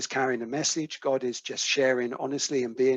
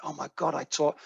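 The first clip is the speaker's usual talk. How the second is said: retold crying; 3 semitones higher, 4 dB louder than usual. Distraught caller admits tearing up a prescription, retold crying. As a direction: imitate her upset with understated crying. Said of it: "and she's crying, she's crying".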